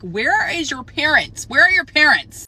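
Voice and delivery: put-on fed up with unsupervised kids, calling out; irritated outburst. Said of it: "I was so irritated".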